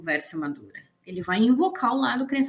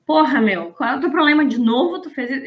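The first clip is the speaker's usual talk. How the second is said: louder, exasperated scolding of a friend; half-acted rant at a crying friend; mock angry telling-off; 5 dB louder than usual. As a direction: chew her out like you're fed up. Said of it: "Eu já ia xingar".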